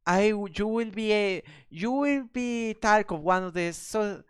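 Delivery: haughty city lady. Acted. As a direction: gush like a posh city lady.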